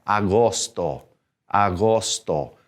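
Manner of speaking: "Agosto" with O vowels, ah-GOS-to; no U sound. Shown as a demonstration. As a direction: say "Agosto" with clear O's and no U. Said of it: "we have to take that U out".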